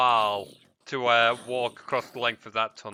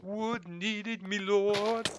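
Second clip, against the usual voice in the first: lightly voiced servile villager, higher; a hint of the servile game peasant; peasant quote again; 7 semitones higher, much slower than usual. Repeating the game villager line to his viewers, lightly voiced. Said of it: "get that reference".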